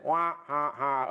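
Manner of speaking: half-hearted mock evil cackle; a weak first go at an evil laugh; evil scientist laugh. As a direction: try out a villain's laugh, tentatively. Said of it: "evil scientist laugh".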